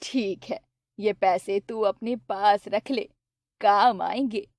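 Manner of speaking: mother pleased with her son's news; happy mother. Acted. Narrator voices the mother. (धीमी, खुश माँ की आवाज़)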